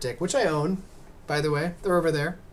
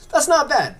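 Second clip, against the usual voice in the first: giddy boast; 12 semitones higher, 7 dB louder than usual. Real, not acted. Proud of the speedrun time.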